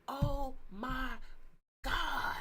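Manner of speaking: recalling the live stream, building to a shout; excited outburst. Real, not acted. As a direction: stretch it out, then shout God. Gushing about the experience.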